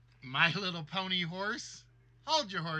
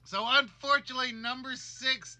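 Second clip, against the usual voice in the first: higher, louder, fast host reveal; quick, loud showman's announcement; excited announcement; 4 semitones higher, 5 dB louder than usual. Real, not acted. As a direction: burst out with the news like a game host. Host announcing game result.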